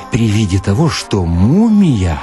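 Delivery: usual speaking voice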